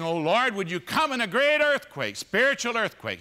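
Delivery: high, loud begging; loud pleading prayer. Pretend. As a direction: cry out to heaven for a sign. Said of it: "what we're doing is saying".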